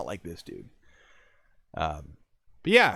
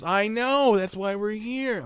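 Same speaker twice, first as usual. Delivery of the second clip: high, drawn-out exasperation; exasperated; 14 semitones higher, 6 dB louder, slower than usual. Retold or imitated. Agent answers man about the stabbing, exasperated. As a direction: stretch it out in a raised pitch.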